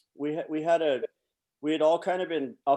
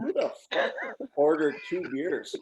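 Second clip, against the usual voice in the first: 1 indignant coach; 3 semitones higher than usual. Retold or imitated. Coaches reacting to beers on plane.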